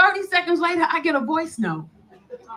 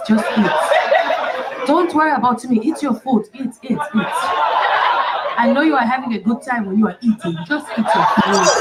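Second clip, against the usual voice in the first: put-on lower, accented admirer urging her to eat; imitating the date; 3 semitones lower than usual. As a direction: coax her to eat, lightly hammed. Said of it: "This is what he says".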